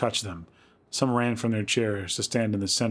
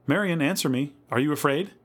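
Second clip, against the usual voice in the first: higher, insistent worried appeal; anxious calling; 6 semitones higher than usual. A narrator's reading. Louise to silent Marion, anxiously calling. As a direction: press for an answer, rising on the question.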